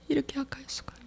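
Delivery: "이렇게 악할 수가" breathed as a whisper; whispered confession. Acted. Believer confessing to the Lord, whispered remorse.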